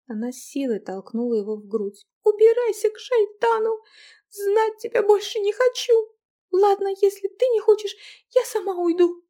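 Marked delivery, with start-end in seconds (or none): 2.2-9.2 high, loud angry shout; furious girl. Acted. Angry wife shouting at her husband to get out. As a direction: drive him out with fury.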